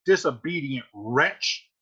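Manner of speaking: disown the daughter coldly; furious father. Acted. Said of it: "And Capulet says".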